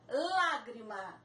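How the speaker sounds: Lágrima drawn out slowly, lá stressed; slow stress demo. Shown as a demonstration. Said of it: "Também lá é a sílaba mais forte". (Lágrima, devagar, com força no lá)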